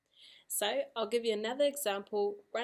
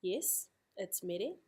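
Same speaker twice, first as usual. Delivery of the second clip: slow agreement; slower than usual. Shown as a demonstration. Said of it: "Then you either agree".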